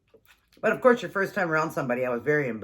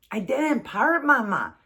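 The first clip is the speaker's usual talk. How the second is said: put-on much higher child voice, "part" lisped for fart; whiny little boy; 9 semitones higher, 4 dB louder, slower than usual. Mom voicing son still denying the fart. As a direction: plead like a small kid.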